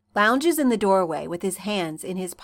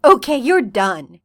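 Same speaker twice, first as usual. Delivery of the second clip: brightly; 9 dB louder than usual. Acted. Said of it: "John says brightly".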